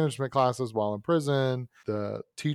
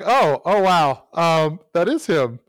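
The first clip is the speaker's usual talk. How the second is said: loud, raised-pitch mock dismay; alarmed realization; 4 semitones higher, 7 dB louder, slower than usual. Storyteller recognizing the man glaring at him, mock alarmed. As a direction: react with a startled, awkward jolt. Acting out recognizing the death stare.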